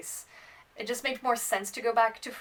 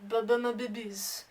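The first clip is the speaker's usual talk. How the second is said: Phoebe impression; 2 semitones higher than usual. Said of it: "That's from Friends".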